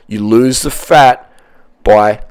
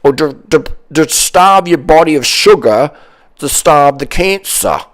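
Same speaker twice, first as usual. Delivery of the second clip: mock idiots; 4 semitones higher, slower than usual. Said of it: "these idiots out say".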